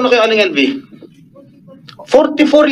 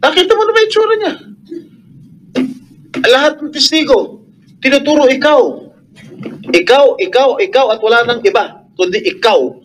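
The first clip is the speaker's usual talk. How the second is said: senator confronting the employer at the hearing, raised angry voice. Real, not acted. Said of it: "raising my voice".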